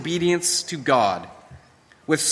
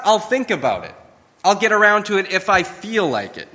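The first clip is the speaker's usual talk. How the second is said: lazy dismissive tone; 4 semitones higher than usual. Retold or imitated. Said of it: "It's not".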